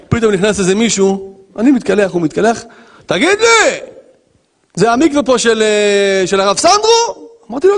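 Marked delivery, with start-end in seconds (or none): 3.1-7.3 nosy stranger. Retold or imitated. Stranger in mikveh asks.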